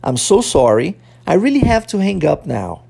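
careful English phrases for learners to repeat; language-teacher repeat-after-me delivery; pronunciation model. Shown as a demonstration. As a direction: model each phrase clearly, then leave a long gap. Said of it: "vamos começar a repetir a pronúncia dessas frases".

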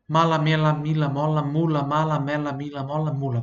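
crisp L syllables, mala mela mila mola mula; diction drill. Shown as a demonstration. Teacher leads an L diction drill for students to repeat. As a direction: enunciate each L syllable for the student to echo. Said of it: "Eu vou falar e você vai repetir".

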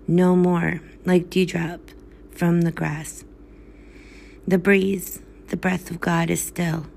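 measured, solemn reading of verse; poem recitation. Acted. Reader reciting Poe to listeners, solemn poem voice. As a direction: read it like a graveside elegy.

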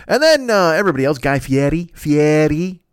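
Fieri said as "fee-EH-ree", leaning on the middle; "Fieri" said with relish as "fee-EH-ree"; exaggerated name pronunciation. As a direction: roll out "Fieri" with showy Italian flair. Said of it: "Mex makes fun of me when I say it like that".

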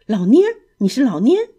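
loud, quick startled recognition; surprised cry. Acted. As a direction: blurt out the old friend's name in shock. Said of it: "皮迪克吃惊地叫着". (吃惊地大声叫出老蔫儿)

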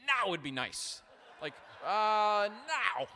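a hammed-up cry to be taken now; mock desperate plea. Pastor begging to be raptured out, loud mock plea.

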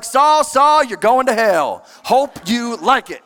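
hammed-up judging Jesus, joking; joking harsh Jesus condemning Saul; mock harsh Jesus. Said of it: "If I'm Jesus, I'd be like".

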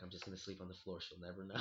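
low, hushed sneaking voice; quiet, low thought while creeping inside; sneaky undertone. Retold or imitated. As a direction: say it softly, as if sneaking in. Retelling sneaking into mom's room.

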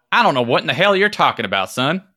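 high, loud and fast indignant retort; gruff old man. Acted. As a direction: snap back at the young stranger. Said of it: "And then he says".

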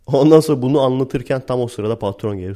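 normal talking voice

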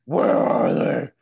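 bad Batman impression. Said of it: "the worst Batman impression".

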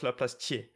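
THIERS said "tee-AY", r silent; corrected pronunciation. Retold or imitated. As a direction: end THIERS on a clean "ay". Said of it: "and it's Thiers".

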